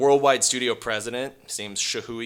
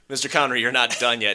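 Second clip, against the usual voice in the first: pleading pitch; 3 semitones higher, 6 dB louder, faster than usual. Retold or imitated. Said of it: "you'd be like".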